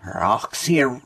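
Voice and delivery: reversed audio clip; words played in reverse; played backwards. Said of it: "here's your sound".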